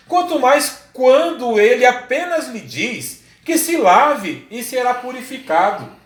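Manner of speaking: slow, emphatic Bible reading; scripture reading. A narrator's reading. Preacher reads servants' plea to their master, slow declamatory reading. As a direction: proclaim the verse, stretching phrases and lifting key words.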